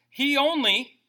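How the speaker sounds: "He only" with "only" punched; stress on only. Shown as a demonstration. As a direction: hit "only" hard. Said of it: "underline that word only".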